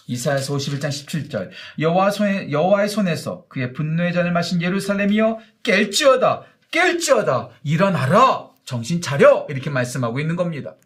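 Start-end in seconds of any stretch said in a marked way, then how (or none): 1.8-9.5 loud, rising scripture proclamation; proclaimed scripture reading. Acted. Preacher reading Isaiah to the congregation: loud proclamation. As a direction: read the verse as a rousing call.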